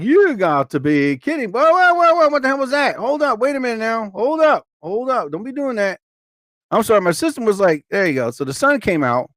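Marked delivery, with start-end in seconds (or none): 0.0-6.0 stunned at the sun breaking through; startled disbelief. Retold or imitated. To herself, startled as the rain suddenly stops, high disbelieving whoa. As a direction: voice jumps high on whoa, hold up. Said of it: "I was like".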